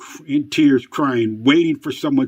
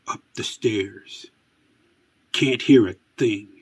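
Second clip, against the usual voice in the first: spooky narration. Acted. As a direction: narrate like a late-night horror host. Spooky Twilight Zone-style narration.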